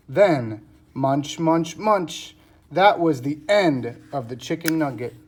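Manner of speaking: measured, emphatic storybook reading; reading to children. A narrator's reading. Teacher reading the cat story to pupils, storybook narration. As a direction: read each sentence out clearly, with pauses between.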